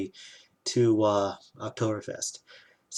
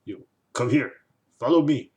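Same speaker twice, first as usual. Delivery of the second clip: imitated drunk stranger; 3 semitones higher, 5 dB louder than usual. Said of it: "some guy, uh, just comes up".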